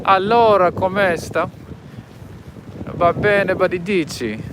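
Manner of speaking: loud, high-pitched Italian impression; Italian accent. Shown as a demonstration. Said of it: "see if I can do an Italian one".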